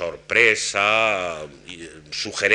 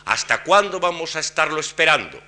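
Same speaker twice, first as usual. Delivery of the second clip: whole phrase lifted high from cuándo, falling at the end; raised register question; 7 semitones higher, 4 dB louder than usual. Shown as a demonstration. Lecturer demonstrates a wh-question tune with a raised register. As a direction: lift the register on "cuándo" and hold it up, then drop at the end. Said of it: "ya todo el registro permanece elevado".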